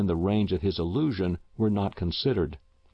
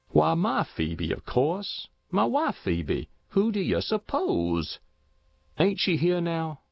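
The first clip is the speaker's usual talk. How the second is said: put-on insistent old Henry; 8 semitones higher than usual. A narrator's reading. Reef insists wife is there.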